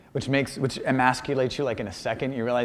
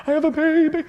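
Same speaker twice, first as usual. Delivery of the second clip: high-pitched panic; squeaky panicked announcement; 5 dB louder than usual. Retold or imitated. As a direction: blurt it out in alarm. Panicked new father.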